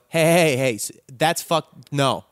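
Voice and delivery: shaky voice, stumbling to speak up. Pretend. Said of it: "in a shaky voice".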